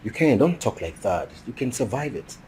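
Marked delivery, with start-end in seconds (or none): 0.0-0.4 said again louder after not being heard; louder repeat so he hears it. Acted. Friend repeats himself to Ken, louder and clearer.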